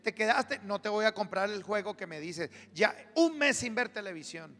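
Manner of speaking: lightly voiced parent laying down punishments; scolding parent. Parent taking privileges away from a misbehaving child, mild scolding.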